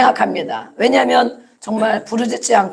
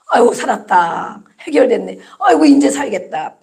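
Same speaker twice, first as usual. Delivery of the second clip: relieved disciples. Acted. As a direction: play someone just let off the hook. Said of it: "그 문제 해결받은 것만 가지고". (아이고 하며 안도하는 말투)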